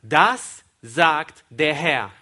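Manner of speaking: very slow, word by word; slow weighty pulpit declaration; solemn proclamation. Acted. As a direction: echo the preacher's weight, dragging each word. Interpreter echoes slow proclamation.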